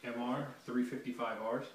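talking through a throat mic. Real, not acted. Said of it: "I am able to use all of this".

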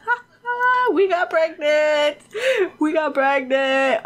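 high, drawn-out jeering taunt; sing-song mockery of gloaters; mocking laughter. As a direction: mimic mean gloating, dragging the words. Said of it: "They're laughing at them. They're like".

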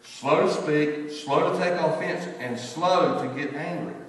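slow, weighting each slow; slow, stressed scripture reading. Shown as a demonstration. Preacher reading James to the congregation, slow and stressed. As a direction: lean on every slow, unhurried. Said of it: "and here it is".

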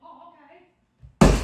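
mock shout. Mickey answers Goofy reluctantly.

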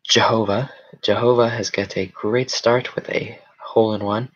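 lightly voiced golf commentator; measured, lilting announcer delivery. Streamer announcing a player's great start, light golf announcer. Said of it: "Golf announcer voice".

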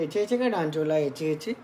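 lisping cutesy dance cheer. Real, not acted. Baby talk cheering child to dance.

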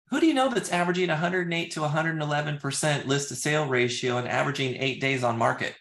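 quick, even and sure; confident. Shown as a demonstration. Agent asking the VP confidently, quick and sure. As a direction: rattle it off with confidence. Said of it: "when I come across confident".

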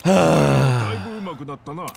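long heavy exhale; long sigh. Real, not acted. Player counting the cost, long sigh. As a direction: sigh it all out. Deflated after the cap.

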